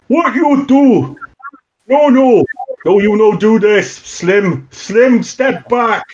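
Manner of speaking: high, frantic broken-English shouting; panicked broken-English Gino. Acted. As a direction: yell at them to stop in a panic.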